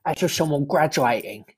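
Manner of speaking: a light put-on Cockney accent; lightly voiced Cockney bloke; David Cockney. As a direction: play a cheeky Cockney geezer, lightly. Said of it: "It's David Cockney".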